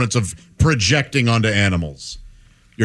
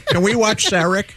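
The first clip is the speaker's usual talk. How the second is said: cat voice; 4 semitones higher than usual. Retold or imitated. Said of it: "She does sound a little Siamese".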